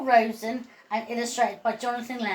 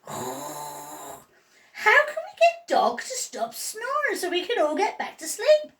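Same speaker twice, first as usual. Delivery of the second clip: weary cat voice; 5 semitones higher than usual. Acted. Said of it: "said Cat".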